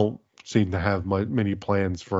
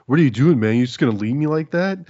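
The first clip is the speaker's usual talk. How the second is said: whiny, louder soap-opera plea; mock teen soap drama; 5 semitones higher, 4 dB louder than usual. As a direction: ham up a hurt teen drama. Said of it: "teen soap opera-ish".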